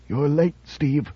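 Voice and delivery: slow, soft, hoarse whisper of a scarred man; hoarse, grating whisper from a twisted mouth. Acted. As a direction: rasp it out slowly, barely voiced. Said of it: "a hoarse, grating whisper".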